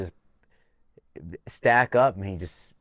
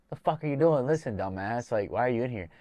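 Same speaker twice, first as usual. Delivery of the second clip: pushy coach tone, aggressive but not angry; kind of aggressive coach; 3 semitones higher than usual. Retold or imitated. Coach scolding his fighter in the sauna, aggressive but not mad. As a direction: get on him like a coach would, not mad. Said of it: "like, being like a coach".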